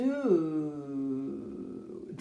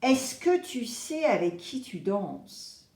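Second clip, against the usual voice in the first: angel's warning. Retold or imitated. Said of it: "l'ange Sagittaire est là pour te dire".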